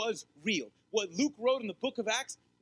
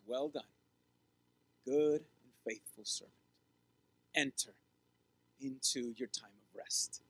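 tender welcome; 7 semitones lower, 5 dB quieter than usual. Retold or imitated. Voicing Jesus' greeting at the end.

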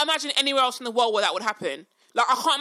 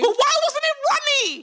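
high, laughing disbelief; incredulous; 11 semitones higher, 3 dB louder than usual. Real, not acted. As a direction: ask it in total disbelief. Incredulous question.

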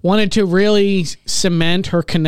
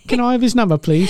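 fake British accent; 5 semitones higher than usual. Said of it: "we do it with British accents".

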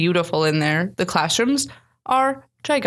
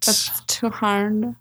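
put-on slow drawn-out teen whine; teenager voice; much slower than usual. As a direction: stretch it like a complaining kid. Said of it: "Our teenager impression is getting so good".

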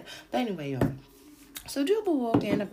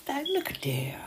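whisper; 8 semitones higher than usual. Real, not acted. Knowing aside.

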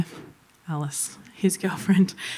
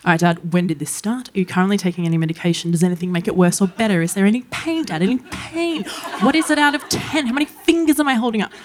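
nurse mode; faster than usual. Retold or imitated. Daughter checking on sick dad, brisk nurse. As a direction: rattle off triage questions fast. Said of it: "I go full nurse mode".

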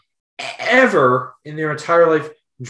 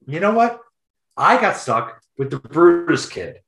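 mock ranting dad. Dad ranting about Brutus kid.

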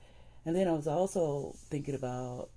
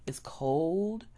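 whisper; 4 semitones higher than usual. Real, not acted. Whispered aside.

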